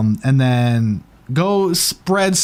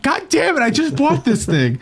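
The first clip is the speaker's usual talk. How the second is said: mock frustration; 10 semitones higher than usual. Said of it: "He's like".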